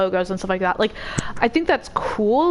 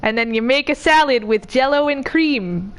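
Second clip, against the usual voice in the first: Midwestern accent. Shown as a demonstration. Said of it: "It goes a little like this".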